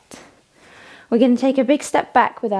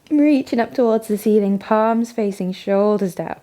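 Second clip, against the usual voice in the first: talking through hiccups; hiccuping between words. Real, not acted. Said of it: "Sorry, I've got the hiccups".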